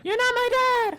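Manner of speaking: hammed-up shriek of a furious teen; mock outraged yell. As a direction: scream it like a teen's tantrum. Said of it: "And Jared's all like".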